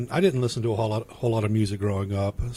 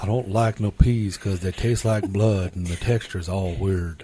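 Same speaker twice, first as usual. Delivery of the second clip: lightly imitated Texan drawl, slow and low; a hint of a Texan twang, drawn out; Hank Hill drawl; 4 semitones lower, slower than usual. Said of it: "sounds like Hank Hill".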